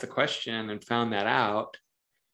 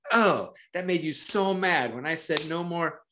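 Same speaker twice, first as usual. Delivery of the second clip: empathetic reflecting; 4 semitones higher than usual. Shown as a demonstration. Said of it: "to really reflect the emotions".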